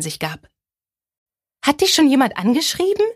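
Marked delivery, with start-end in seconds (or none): 1.6-3.1 high, eager question; bursting to know who wrote; excited. A narrator's reading. Best friend eagerly asking Bailey about a message, excited. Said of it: "fragte Dawn aufgeregt".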